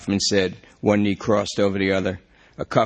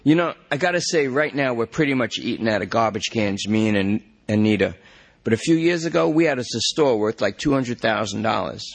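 desperate junkie; 2 semitones higher than usual. Acted. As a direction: beg the cop to check the system. Lester reminisces.

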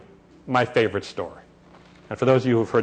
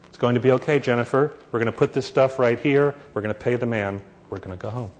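soft, calm, sinking to a hush at the end; a mother soothing her crying baby at the checkout; talking softly; 2 semitones lower than usual. Retold or imitated. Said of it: "still talking softly".

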